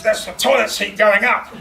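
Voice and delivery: deadpan line cracking into a laugh; laughing punchline. Retold or imitated. Jono explaining the crash on the phone, laughing punchline. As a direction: land the joke, laughing. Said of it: "he says".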